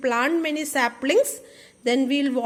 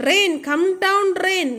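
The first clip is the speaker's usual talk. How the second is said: praying plea; 4 semitones higher than usual. Acted. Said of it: "prayed the empty fields".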